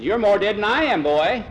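high, loud, hearty scoff; incredulous old salt; scoffing sea captain. A narrator's reading. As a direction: laugh off the very idea, booming. Captain teases his sick son.

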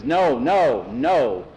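insistent, stressed denial; firm refusal. Acted. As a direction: shut the request down firmly. Tom refuses Skeeter.

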